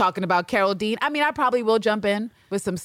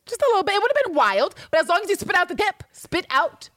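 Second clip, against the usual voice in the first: excited; 10 semitones higher than usual. Real, not acted. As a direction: gush about it with glee. Excited wish about the bite.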